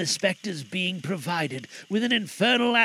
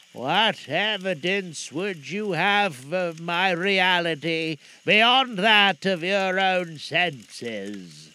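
ghost voice; 3 dB louder, much slower than usual. Acted. Ghost questions Scrooge slowly.

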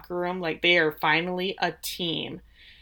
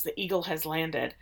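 mock whisper; 2 semitones lower, 6 dB quieter than usual. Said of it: "Higgins whispers to Ted".

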